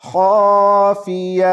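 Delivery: خافیہ with heavy خا and final ہ, slow; pause form. Shown as a demonstration. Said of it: "گولتا کو ہا پڑھتے ہیں،".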